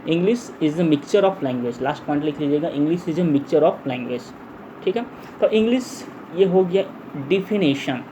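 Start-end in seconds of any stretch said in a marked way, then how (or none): 0.1-1.8 very slow, word-by-word dictation; drawn-out words at note-taking speed. Shown as a demonstration. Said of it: "धीरे धीरे मैं बोलूँगा". 2.7-4.2 very slow, word-by-word dictation; drawn-out words at note-taking speed. Shown as a demonstration. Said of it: "धीरे धीरे मैं बोलूँगा".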